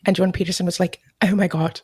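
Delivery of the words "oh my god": put-on British accent. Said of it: "giving the British accent".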